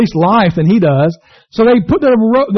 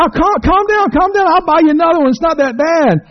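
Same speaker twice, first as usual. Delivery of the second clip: soothing big fella; 10 semitones higher than usual. Retold or imitated. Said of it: "the guy's like".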